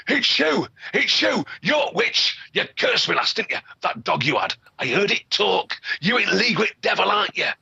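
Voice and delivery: very high hysterical accusation; accusing cry. Acted. Cursed peddler accusing Alison, high hysterical shriek. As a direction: point and shriek at the witch.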